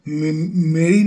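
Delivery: brief stammer before মেরির; stuttering on M. Real, not acted. Explaining to viewers what Christians swear by, stuttering on M. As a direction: catch on the M, then push the name out. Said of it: "আমার ম বলতে গেলে পর তোতলামি হয়".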